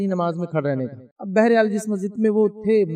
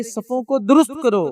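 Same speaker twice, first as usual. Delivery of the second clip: slow solemn command; 3 semitones higher, 3 dB louder, slower than usual. Retold or imitated. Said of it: "جب امامت کے لیے کھڑے ہوتے تو کہتے".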